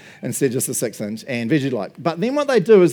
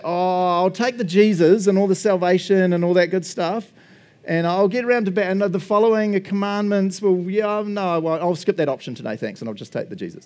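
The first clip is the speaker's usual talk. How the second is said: picky believer; 5 semitones higher than usual. Retold or imitated.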